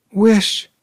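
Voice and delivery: high, loud commanding cry; strong voice. A narrator's reading. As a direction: order it forcefully. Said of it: "she cried in a strong voice".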